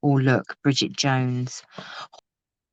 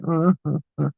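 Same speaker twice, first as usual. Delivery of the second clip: mock sobbing. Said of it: "and was like".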